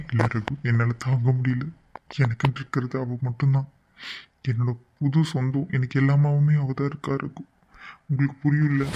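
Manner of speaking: heartbroken pleading to a friend; broken, tearful. Acted. Man tells friend she is all he has, tearful. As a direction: let grief weigh on every phrase. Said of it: "இப்படி உடைஞ்சு போய் அழுதா".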